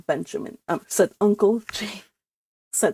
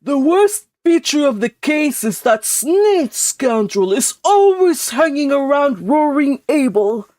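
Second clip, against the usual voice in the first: louder, grave uncle; a stern relative condemning, louder; grim uncle; 3 semitones higher, 6 dB louder than usual. Acted. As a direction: growl it out sternly. Uncle James voiced.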